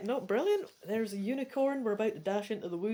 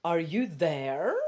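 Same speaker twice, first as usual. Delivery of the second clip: calling out, drawn out and louder; hollering from outside; 3 semitones lower, 6 dB louder, much slower than usual. Acted. Friend calling from outside the cabin, hollering. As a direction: shout it through the door. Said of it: "someone hollers from outside".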